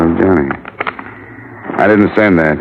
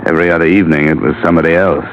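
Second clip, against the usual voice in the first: dry, bitter sarcasm; sarcastic; 3 semitones lower than usual. Acted. Johnny answering Eileen's confession, bitterly sarcastic. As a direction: cut her down with mock sympathy. Johnny mocks her remark.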